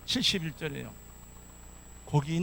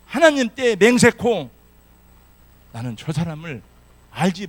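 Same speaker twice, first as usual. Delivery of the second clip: loud sworn denial; 7 dB louder than usual. Acted. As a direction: swear it loudly, desperate. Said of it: "더 큰 소리로 확신에 있게 말했습니다".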